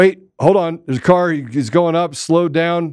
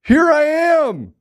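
cheeky evidence voice; 12 semitones higher, much slower than usual. Pretend. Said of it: "smashed the judge with evidence like".

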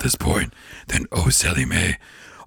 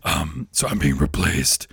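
Satan voice. Retold or imitated. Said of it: "It's like".

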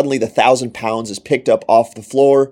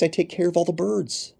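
a higher, softer, caring voice of God; God speaking tenderly; 5 semitones higher, 3 dB quieter than usual. Acted. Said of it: "He says in Matthew six".

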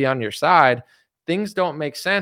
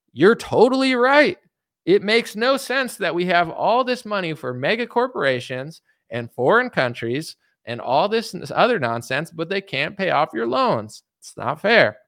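higher, gentle agreeing tone; agreeable parent voice; 5 semitones higher than usual. Retold or imitated. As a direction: sound understanding to the kids. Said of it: "proper conversation ... would be like".

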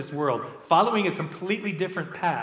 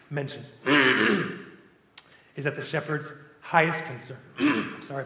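hoarse and strained; struggling voice, clearing the throat; losing voice. Real, not acted. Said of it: "I'm losing my voice".

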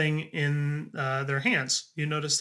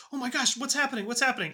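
put-on panicked girl; 9 semitones higher, much faster than usual. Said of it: "She says".

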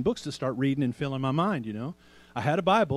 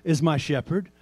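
slow declaration; 2 semitones higher than usual. Shown as a demonstration. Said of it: "We can say it like this".

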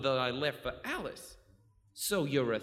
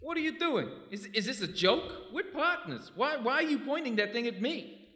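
high, frightened pleading; panicked; 10 semitones higher than usual. Acted. Legs seeing the gun turned on him, frightened.

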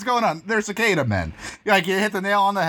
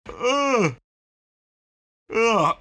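yawn; 4 semitones higher than usual. Pretend. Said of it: "tired today".

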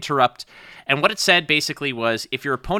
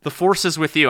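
annoyed; 3 semitones higher than usual. Retold or imitated. Buddy finally giving in, annoyed. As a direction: spit out the phrase, fed up. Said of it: "he would get annoyed and he'd be like".

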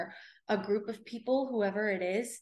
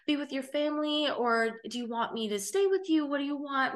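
put-on a lightly raised, earnest girl's voice; imitating the girl urging her to go home, pitched a bit higher; caring stranger girl; 5 semitones higher than usual. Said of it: "And she said".

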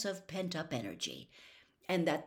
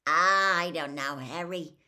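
mild sighing worry; understated sigh of worry; 7 dB louder than usual. Acted. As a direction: let a sigh carry the words. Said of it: "Hagrid sighed suddenly".

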